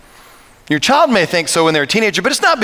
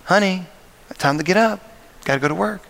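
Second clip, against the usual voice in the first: gentle wake-up call; 4 dB quieter, faster than usual. Retold or imitated. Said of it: "put your hand on the child".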